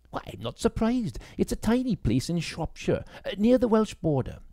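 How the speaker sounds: put-on young woman's voice. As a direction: bite back the questions politely. Grace speaks.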